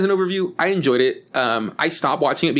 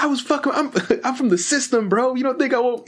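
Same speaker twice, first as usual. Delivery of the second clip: much higher, hammed-up angry outburst with a laugh; mock furious rant; 11 semitones higher than usual. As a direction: snap in a raised, cracking voice. Voicing the coder losing it.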